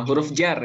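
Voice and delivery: "jar" with a, not the "jer" reading. Shown as a demonstration. Teacher gives the other reading, "jar" said with a. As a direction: say "jar" with an open a. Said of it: "boleh aja".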